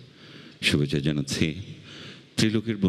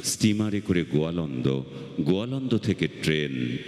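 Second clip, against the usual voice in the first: slow, measured recital with long pauses; poem recitation; 5 semitones higher than usual. Acted. Reciter recalls childhood smoke for festival audience, measured poem recitation. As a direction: recite it as a memory, pausing after each phrase.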